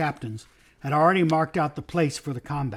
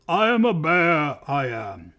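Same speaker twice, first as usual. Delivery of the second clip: put-on slow, drowsy old bear; thick sleepy voice; 2 semitones higher, 4 dB louder, slower than usual. A narrator's reading. Bear introducing himself to the king, thick sleepy voice. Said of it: "sleepy voice said".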